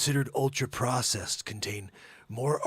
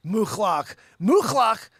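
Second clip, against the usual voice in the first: louder, higher scornful naming; exaggerated offended shout; mock indignant repeat; 6 semitones higher, 9 dB louder, slower than usual. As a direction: spit the name out in disgust. Mocking the name louder.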